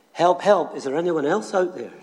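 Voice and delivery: high, loud desperate call; shouting for help. Retold or imitated. Jack refuses God's advice and shouts upward, loud cry. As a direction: shout it upward, anyone but God. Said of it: "Jack looked up and shouted".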